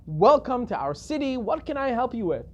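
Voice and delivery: lively, effusive doorstep greeting; friendly welcome. Retold or imitated. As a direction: greet a stranger with hearty welcome, acted out. Host greets the visitor effusively.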